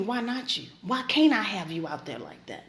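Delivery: low, understated rebuke in God's voice; God questioning her. Retold or imitated. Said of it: "And he asked me".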